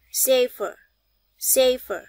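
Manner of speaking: safer with the final er as a short uh; schwa ending. Shown as a demonstration. Teacher drills class on safer, final uh. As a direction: model safer twice, ending on uh. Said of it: "Các bạn để ý những âm này".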